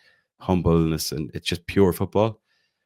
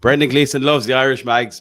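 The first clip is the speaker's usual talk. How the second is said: mock headline; 7 semitones higher, 8 dB louder than usual. Announcing a joke headline.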